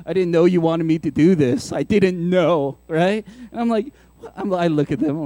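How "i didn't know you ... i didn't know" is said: mock wounded, lower kid whine; hurt kids. Kids protesting to mom that they didn't hear, mock hurt. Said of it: "they get all hurt".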